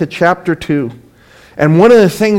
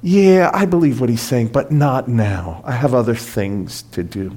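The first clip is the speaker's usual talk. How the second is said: a casual brush-off that drops away; dismissive excuse; 6 semitones lower, 5 dB quieter than usual. Retold or imitated. A half-hearted believer putting God off, dismissive. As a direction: voice sinking low on "not now". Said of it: "appease themselves to say".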